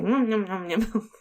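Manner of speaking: put-on munch the words like a toddler; lightly imitated little one's yum-yum; imitating toddler. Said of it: "He was just like".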